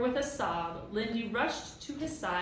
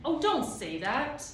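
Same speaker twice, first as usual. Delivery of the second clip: desperate cry; 7 semitones higher, 5 dB louder, slower than usual. A narrator's reading. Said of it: "Ben cried desperately".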